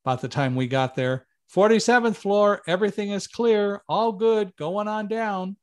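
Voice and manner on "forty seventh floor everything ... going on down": higher called-out floor report; calling up the stairs. Retold or imitated. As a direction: shout the all-clear upward. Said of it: "he was shouting up to me".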